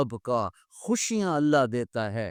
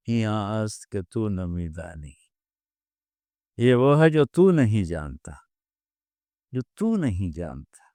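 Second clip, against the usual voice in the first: innocent gentle reply; 5 semitones lower than usual. Acted. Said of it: "بڑی معصومیت سے بولے".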